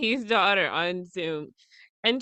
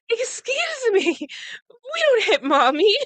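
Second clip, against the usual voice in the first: much higher, slow, scolding mother; stern mom; 11 semitones higher, 5 dB louder, slower than usual. Retold or imitated. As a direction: scold the toddler with slow firm words. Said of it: "I was like".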